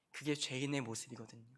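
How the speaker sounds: normal talking voice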